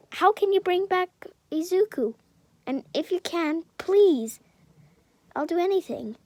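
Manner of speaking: high pleading voice; mother begging the doctor; desperate plea. Acted. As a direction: beg him with hope.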